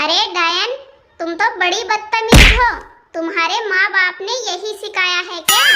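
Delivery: angry scolding. Acted. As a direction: scold the rude daughter-in-law. Mother-in-law insults daughter-in-law.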